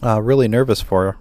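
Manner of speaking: dry mouth, tongue sticking; talking with a dry mouth. Real, not acted. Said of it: "I have a really dry mouth".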